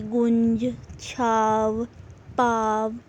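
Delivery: vowels in गुंज, छाव, पाव sounded through nose and throat together; nasalised vowel. Shown as a demonstration. Teacher showing anunasik to students, vowels through nose and throat. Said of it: "नाक और गले दोनों का use होता है".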